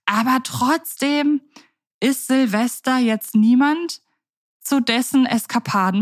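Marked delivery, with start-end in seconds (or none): none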